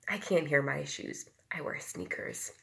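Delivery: gentle read-aloud storytelling voice; reading to children. A narrator's reading. Teacher reads a book aloud to the class, gently. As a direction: read it like a picture book to little ones.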